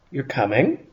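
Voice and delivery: rising surprised question on coming; you're coming, really?. Shown as a demonstration. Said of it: "a somewhat surprised question".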